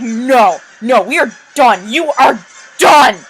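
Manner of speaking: loud exasperated outburst, shouting You are done; angry fed-up rant. Retold or imitated. Facilier fed up with Mach, loud angry rant. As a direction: vent like you've had it with him. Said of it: "feel the anger radiating from Facilier".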